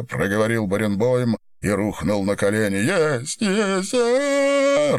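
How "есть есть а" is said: high breaking sobbing wail, climbing higher. A narrator's reading. Баренбойм collapses in hysterics, wailing high and sobbing. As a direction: let it break into a sobbing howl. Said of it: "Рыдания сотрясали его".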